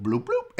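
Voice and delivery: soft low plopping noise, bloop bloop; low quiet bloop sound. Shown as a demonstration. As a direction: murmur the plop like something dropping in water. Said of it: "the baby sounding like poop that goes in the toilet".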